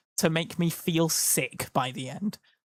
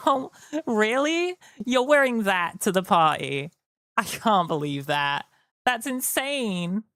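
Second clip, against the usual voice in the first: put-on mean girl; 4 semitones higher than usual. Turning mean girl on chat's outfit, mock catty. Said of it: "went into mean girl at the end".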